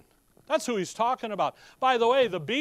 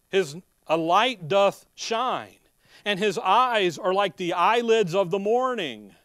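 slow, louder King James recitation; solemn scripture reading; 4 dB louder, slower than usual. Acted. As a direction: proclaim the verses with weight. Reads King James scripture aloud.

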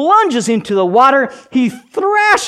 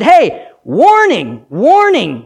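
slow warning call; 2 semitones higher, 4 dB louder, slower than usual. Acted. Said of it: "The first crow said".

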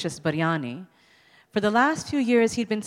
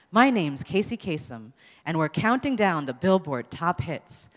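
radio DJ voice. Retold or imitated. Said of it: "the distinct rasp of his voice".

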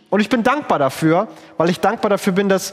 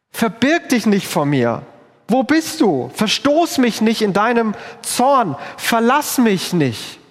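anguished plea; 4 semitones higher, slower than usual. Acted. Desperate prayer voiced.

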